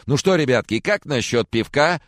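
beaming dad with the beer; cheerful old man offering beer; jolly host. Acted.

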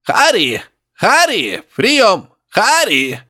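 put-on high, grunting old professor calling through static. Professor calling Harry over the radio, high grunting voice. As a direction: call out to him, high and piggy. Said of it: "хрюкающий голос профессора".

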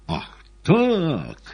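high, loud burst of defiance; wild, cornered. A narrator's reading. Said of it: "дико и затравленно озираясь".

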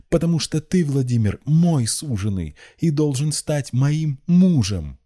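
very high, loud possessive outburst; frenzied cry. A narrator's reading. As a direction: cry out feverish devotion, drawing out the end. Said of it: "вскричала Рассана в выступлении".

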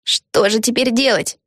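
high, slow, lightly voiced girl; a hint of worry; worried girl. A narrator's reading. Peggy asks Vega, lightly worried.

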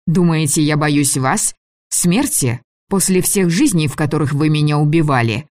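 rising fury against her captors; furious tirade. Acted. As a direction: hurl the accusations at the old men. Heroine's furious tirade at elders.

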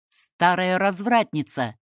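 loud, drawn-out insult; furious shout. A narrator's reading. Young man insults the woman, shouting furiously. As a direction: hurl it slowly in anger. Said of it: "закричал он, не помня себя от гнева".

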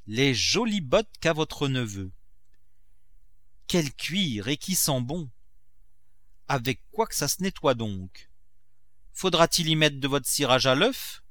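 a touch of wonder, pitch lifted; mildly admiring cook; lightly voiced servant Nanon. Servant marvelling at the nephew's fine boots, lightly acted admiration.

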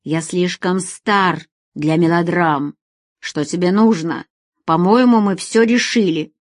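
put-on older man coldly ending the affair; weary older man. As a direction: brush her off wearily. Asim coldly dismissing her.

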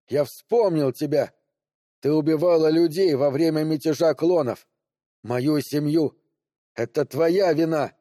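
furious accusation. Acted. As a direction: hurl the blame at her. Man accusing Maria of killing family.

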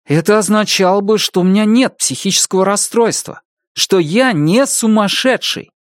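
rising to a near shout. Acted. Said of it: "Бенни заговорил громче".

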